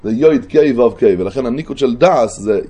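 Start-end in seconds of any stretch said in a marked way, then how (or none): 0.1-1.2 יויד, קיי, וו, קיי as "yoid kay vov kay"; vowelled letter sequence. Shown as a demonstration. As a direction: run יויד, קיי, וו, קיי together with oi, ey, o, ey. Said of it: "כך אתה אומר".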